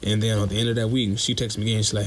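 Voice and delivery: ordinary delivery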